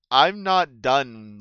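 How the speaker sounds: slow, lightly sinister hero voice; a hint of sinister heroic bravado; All Might. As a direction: stretch it out like a menacing heroic dragonborn. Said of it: "picture if All Might from My Hero was a dragonborn".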